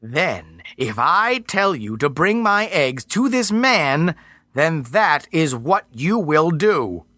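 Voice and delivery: slow, otherworldly Earth Mother; slow angry goddess. Acted. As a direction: hold back fury, slowly.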